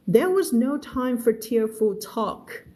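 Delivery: very slow, clear story reading; slow read-aloud. Shown as a demonstration. Teacher reading a novel aloud to her class, very slow. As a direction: read each word out slowly for learners.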